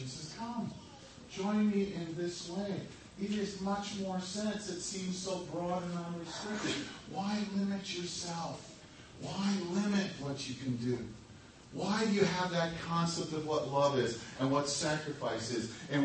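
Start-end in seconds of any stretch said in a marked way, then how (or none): 0.4-11.0 much softer, luring murmur like a tempter; coaxing hush. Retold or imitated. Tempter's friend softly luring a kid down the broad path, hushed and coaxing. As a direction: draw them in softly, all honey. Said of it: "coaxes you, smiles at you".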